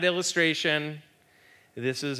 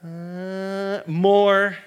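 loud, high, strange growl of craving; hungry growl; 7 semitones higher, 6 dB louder than usual. Acted. Preacher voicing the body's hunger, growling loud. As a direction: growl it like a starving beast.

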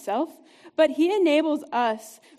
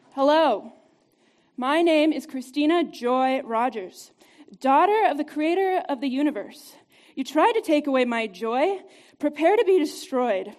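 louder, firm, declared in her own voice; bold declaration, no accent; 4 dB louder than usual. Shown as a demonstration. Speaker models declaring her name against the devil, bold and loud. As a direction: proclaim it like a warrior claiming victory. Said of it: "I'm not gonna do it in a Spanish accent".

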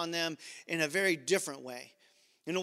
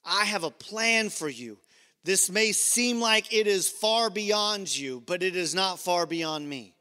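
tender reassuring. Retold or imitated. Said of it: "he lets her know".

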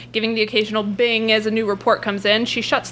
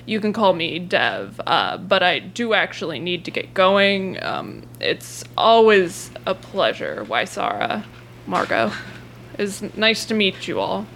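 lower, measured half-orc voice; lightly voiced low half-orc; Dev; 3 semitones lower than usual. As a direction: settle low and take your time. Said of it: "and Dev talks more like".

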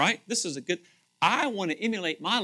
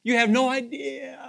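high, loud shouted protest; voices from heaven shouting; 9 semitones higher, 5 dB louder, much slower than usual. Retold or imitated. The departed in heaven shouting back at the praying family, loud and high. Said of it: "they're probably saying".

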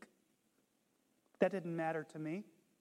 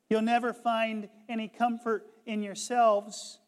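preaching loudly; 2 semitones higher, 7 dB louder than usual. Retold or imitated. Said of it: "the layman preacher continued".

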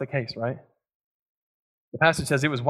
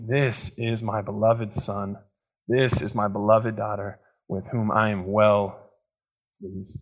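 tender declaration; 3 semitones lower, slower than usual. Retold or imitated. God declares over you.

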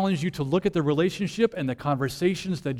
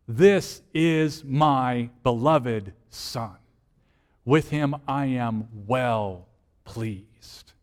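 a hint of a solemn divine voice, very slow; voice from heaven; 4 semitones lower, much slower than usual. Preacher voicing God at the baptism, slow and solemn. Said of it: "the voice thundered from heaven".

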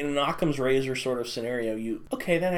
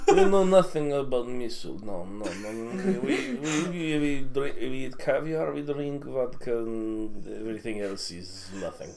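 put-on Russian accent. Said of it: "you sounded vaguely Wisconsin".

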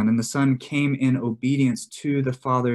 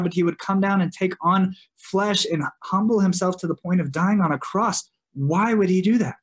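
higher-pitched, building rhetorical questions; urgent questioning; 4 semitones higher than usual. Acted. Preacher voicing what listeners should be asking, urgent questioning. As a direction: press the questions, pitch climbing as they pile up. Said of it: "you should just be asking".

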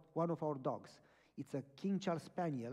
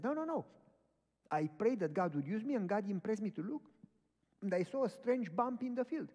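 insistent; 5 semitones higher, 3 dB louder than usual. Retold or imitated. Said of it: "He says".

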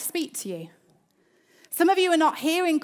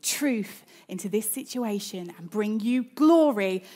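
whispered prayer; 5 semitones lower than usual. Shown as a demonstration. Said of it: "it's a mutter under your breath".

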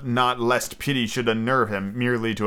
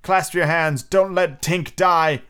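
higher, urgent rallying cry; shouted appeal; 6 semitones higher, 3 dB louder, slower than usual. A narrator's reading. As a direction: plead loudly, stretching the last words. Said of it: "he shouted at them".

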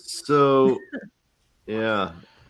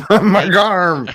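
Margarm yelled high and loud; shouted Margarm; 11 semitones higher, 14 dB louder than usual. Retold or imitated. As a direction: Margarm belted, falling. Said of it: "Zormama went".

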